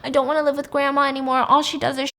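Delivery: mock-tearful whine building to an outburst; imitating crying child. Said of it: "like, crying".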